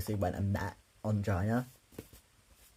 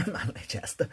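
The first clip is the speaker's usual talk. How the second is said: laughing; 6 semitones higher than usual. Real, not acted. Jokes about own manly chest.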